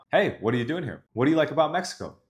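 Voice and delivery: each question sliding up at the end; quick questions lifting upward; rising question tune. Shown as a demonstration. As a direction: ask it like you want something. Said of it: "my voice is going from down to up".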